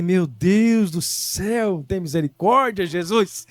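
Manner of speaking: drawn-out mock-despairing cry to heaven; exasperated plea. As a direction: stretch the opening words out in mild exasperation. Retells exasperated plea to God. (súplica exasperada, arrastada)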